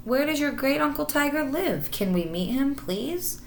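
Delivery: high, eager little kitten asking. Acted. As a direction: Smudger begging the old cats to meet Tiger, high and eager. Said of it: "he asked Marmaduke".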